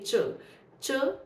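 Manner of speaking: "च" as a short CH phonics sound; isolated CH sound. Shown as a demonstration. Teacher shows C and H combined, "च" as one isolated sound. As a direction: sound out "च" on its own, falling. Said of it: "ये च sound pronounce करती है".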